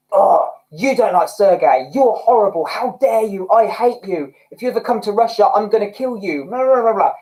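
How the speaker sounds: lightly acted hate comment, running on into blah-blah; mock outraged fan. Coach imitating a singer's fan commenting, mock outrage. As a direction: mimic an indignant troll without full force. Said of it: "make me dislike the hate comment".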